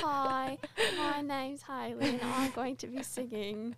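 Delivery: a light hint of an Australian talent show contestant, slow on her name; hammed-up contestant intro, slightly slow; mock X Factor contestant. Talent show hopeful introducing herself, lightly voiced in mock Australian. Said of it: "You sound like an X Factor contestant".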